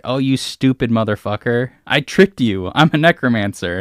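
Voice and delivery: loud mocking villain taunt; gloating traitor. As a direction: sneer it in triumph at the dupe. Traitor mage gloats to player.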